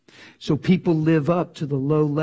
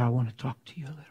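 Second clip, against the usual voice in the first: whisper; 6 dB quieter, much faster than usual. Real, not acted. Tender talk in the car.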